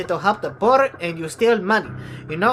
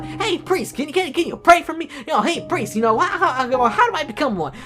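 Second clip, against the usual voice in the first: put-on kid voice; 4 semitones higher than usual. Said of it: "one will come up to you going".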